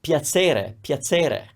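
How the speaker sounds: Bologna piacere with ts for ch; Bologna accent. Shown as a demonstration. Teacher showing the Bologna ts sound in piacere. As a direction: repeat piacere with a ts, Bologna style. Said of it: "like a ts sound".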